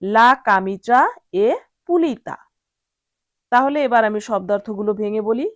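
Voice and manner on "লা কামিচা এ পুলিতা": model Italian sentence. Shown as a demonstration. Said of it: "বলতে হবে".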